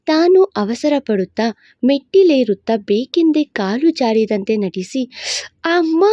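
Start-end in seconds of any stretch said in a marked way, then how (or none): 5.6-6.0 fake cry of pain. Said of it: "ಎಂದು ಚೀರಲು".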